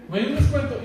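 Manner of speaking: the patient re-asking the hospital clerk for a discount, cheeky and hopeful; cheeky bargaining ask. Shown as a demonstration. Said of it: "Así como lo estoy diciendo".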